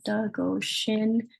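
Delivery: slow, careful Ojibwe: Dago Shin, each syllable clear; teacher sounding out Dago Shin; Ojibwe word said slowly. Shown as a demonstration. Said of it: "substituting Dago Shin in here".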